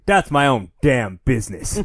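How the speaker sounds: slow put-on Texas drawl; gruff-cowboy Texan retort, hammed up; mock Texas accent. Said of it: "he has the Tex accent now".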